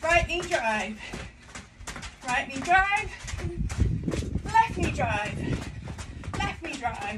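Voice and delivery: coach call. Real, not acted. Coach calling moves.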